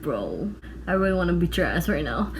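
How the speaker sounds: low, quiet seething aside; muttered threat. Retold or imitated. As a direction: drop way down in pitch and volume, menacing. Silent threat while glaring at boy.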